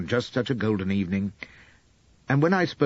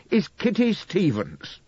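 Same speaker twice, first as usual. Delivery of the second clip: roaring; 10 semitones higher than usual. Acted. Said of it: "roars I".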